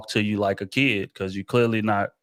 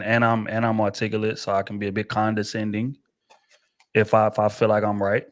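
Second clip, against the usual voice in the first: ordinary talk, nothing marked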